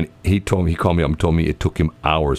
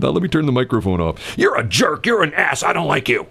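higher pitched grumpy rant; nasty off-air host; 7 semitones higher than usual. Retold or imitated. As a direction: drop the nice act, sneer. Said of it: "I always tell the story".

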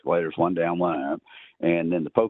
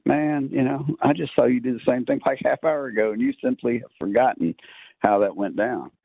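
mock complainer; 6 semitones higher than usual. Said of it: "just like".

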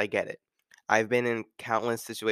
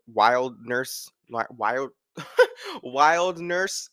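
laughing stumble; 2 semitones higher, 4 dB louder, much slower than usual. Real, not acted. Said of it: "I was trying so hard to say that word".

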